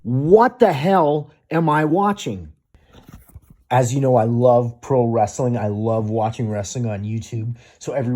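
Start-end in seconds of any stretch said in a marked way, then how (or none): 0.0-2.5 incredulous. Real, not acted. Reacting to the clip.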